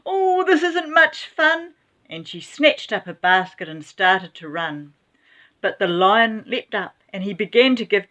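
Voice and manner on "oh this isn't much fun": nervous grandma voice. A narrator's reading. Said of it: "Grandma gulped".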